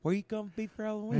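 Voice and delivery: put-on fast, thick Pittsburgh accent. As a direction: talk like a Pittsburgh local. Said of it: "That's a Pittsburgh accent".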